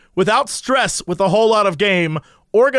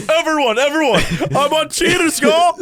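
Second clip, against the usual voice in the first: higher, hammed-up bragging call; mock excited announcement; 6 semitones higher than usual. The speaker tells everyone about Cheaters, mock excited announcement. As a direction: announce it to everyone, playfully overexcited.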